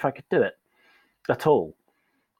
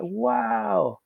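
higher, slow, gently amazed; sympathetic awe; 5 semitones higher, slower than usual. Retold or imitated. Coach to struggling colleague, amazed and kind. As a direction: reassure them warmly. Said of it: "I'd be like".

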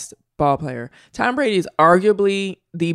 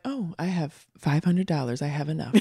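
contented person; 4 semitones lower, 9 dB quieter than usual. Retold or imitated. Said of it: "one person might be like".

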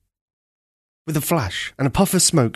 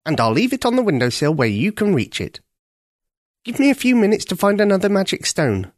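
raspy cawing crow; 8 semitones higher than usual. A narrator's reading. Senior crow voiced in story.

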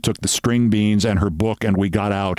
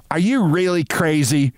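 high-pitched, incredulous question; indignant demand; 7 semitones higher than usual. A narrator's reading. Sylvia challenging the narrator as they get off, indignant. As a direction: demand an answer in a raised pitch. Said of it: "she demanded".

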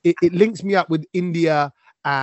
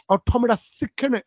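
higher-pitched put-on London twang; mock London twang; 5 semitones higher than usual. Host imitating teenage cousins greeting him, mock London twang. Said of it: "London twang".

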